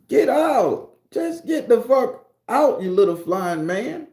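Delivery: loud, high-pitched comic outburst; acted panicked yelling. Man ordering a flying fairy out, yelling in panic.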